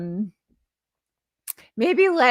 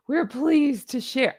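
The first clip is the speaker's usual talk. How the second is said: weird put-on voice; slower than usual. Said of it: "I don't know what voice I'm doing".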